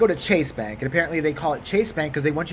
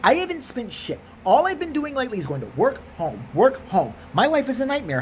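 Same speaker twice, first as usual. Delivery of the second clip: higher, pleading indignation; indignant protest; 6 semitones higher than usual. Acted. Customer protesting to the teller about spending nothing, indignant. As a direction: protest your innocence, pitched up.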